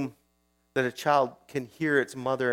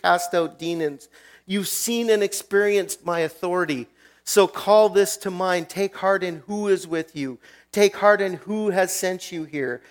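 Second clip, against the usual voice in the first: higher, louder, driving Jesus voice; impassioned preaching; 4 semitones higher, 6 dB louder than usual. Retold or imitated. Jesus rallying the frightened disciples, loud and fervent. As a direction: preach it with full conviction, then settle at the end. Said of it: "He says".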